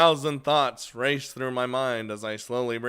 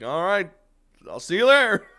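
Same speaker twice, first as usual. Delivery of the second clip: high, louder mock cheerful goodbye; mock Rin; 8 semitones higher, 9 dB louder than usual. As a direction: toss off a squeaky imitation of her. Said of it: "She's like".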